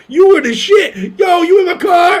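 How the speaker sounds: high, shouted fan excitement; slow, drawn-out mock shout; imitated starstruck driver. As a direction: holler like a thrilled fan. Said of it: "And he goes".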